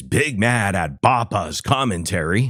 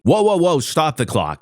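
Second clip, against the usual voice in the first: punchy catchphrase impression, high on the whoas; 5 semitones higher than usual. Host redoing a borrowed catchphrase, emphatic impression. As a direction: leap up on the whoas, then drop. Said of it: "That's better".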